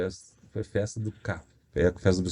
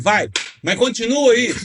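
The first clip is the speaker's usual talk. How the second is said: high, slow taunting lady voice; drawn-out dare; mocking old lady; 8 semitones higher, 4 dB louder, slower than usual. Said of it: "olhando pra mim". (senhora provocando devagar)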